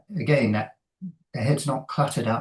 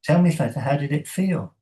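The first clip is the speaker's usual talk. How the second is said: high, louder prompting question; encouraging coach; 5 semitones higher, 3 dB louder than usual. Retold or imitated. Coach turns the question back on the swimmer, high and encouraging. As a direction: coax the swimmer to notice.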